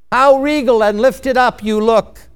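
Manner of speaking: restrained, dutiful courtier's flattery; lacking conviction. Acted. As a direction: praise the king without really selling it. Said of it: "You didn't say that with conviction".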